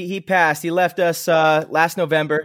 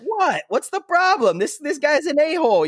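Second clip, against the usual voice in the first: indignant dad; 10 semitones higher than usual. Retold or imitated. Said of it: "He's like".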